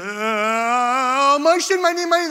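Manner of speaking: high-pitched, rapturous fake babble; mock tongues-speaking. Boy faking tongues for the praying ladies, high hammed-up wail. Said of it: "And then he goes".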